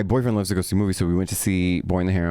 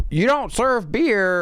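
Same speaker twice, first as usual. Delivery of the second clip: put-on higher, slow bewildered old man; scared old man; 11 semitones higher, slower than usual. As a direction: play a confused old man at the cinema. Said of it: "scared alien old man".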